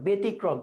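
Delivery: ব্যতিক্রম said "be-tikrom"; closed pronunciation. Shown as a demonstration. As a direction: narrow e opening ব্যতিক্রম. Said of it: "এইটা সংবৃত উচ্চারণ".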